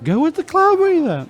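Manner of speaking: captain lightly mimicking his family's taunt; mocking family. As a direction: toss off the family's jab in mock tone. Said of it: "They said".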